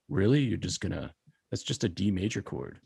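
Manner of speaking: sweetly passive aggressive. Retold or imitated. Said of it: "it's a very passive aggressive voice".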